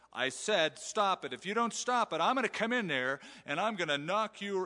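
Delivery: scolding threat. Retold or imitated. Parent threatening the boys, a mock angry scold. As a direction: play a fed-up parent warning the boys. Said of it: "Here's the threat".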